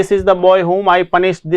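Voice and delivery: put-on slow, stressing the boy; slow dictation. Shown as a demonstration. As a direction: read it out for the class. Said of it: "यहाँ पे देखिए".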